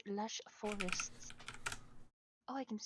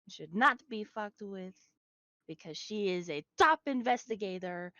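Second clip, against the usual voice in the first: grand character intro; 5 dB louder than usual. Acted. Player describing her mighty character.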